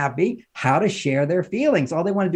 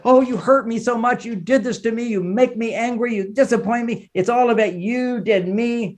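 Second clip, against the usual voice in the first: blaming complaint; 5 semitones higher than usual. Retold or imitated. Wife's blaming complaint acted out.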